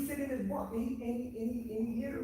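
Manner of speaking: getting fired up about the vision; excited. Real, not acted. Man telling friends about his dream, fired up and pitched high.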